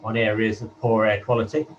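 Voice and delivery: hollow, echoey line like a wind tunnel; as if speaking inside a tunnel; echoing tunnel. Real, not acted. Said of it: "you're still in a wind tunnel".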